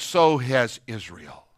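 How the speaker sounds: soft and low, slowing down; tender. Acted. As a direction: speak tenderly, as if into an ear. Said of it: "speak tenderly to her".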